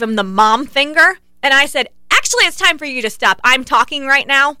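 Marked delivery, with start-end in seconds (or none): 2.1-4.6 telling him off. Retold or imitated. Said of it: "I'm yelling at him".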